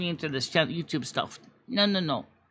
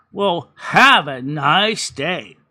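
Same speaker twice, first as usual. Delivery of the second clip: sarcastic goodbye; 3 semitones lower, 7 dB louder, much slower than usual. Retold or imitated. Sarcastic sign-off.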